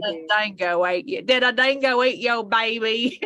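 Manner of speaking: mock Australian accent; lightly put-on Aussie quote; Elaine. Quoting that part in Seinfeld, mock Aussie accent. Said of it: "when Elaine does that".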